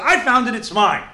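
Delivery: a hammed-up grab, insisting; mock indignant claim. A man in court pleading over the shirt, hammed-up indignant.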